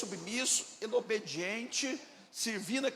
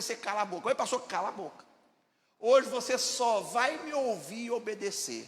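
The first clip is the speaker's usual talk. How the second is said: retold stern outburst, louder; mock angry scolding; 4 dB louder than usual. Pastor scolds the complaining church member, mock angry scolding. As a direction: play the angry pastor ordering silence. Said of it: "Aí um dia eu acordei com raiva".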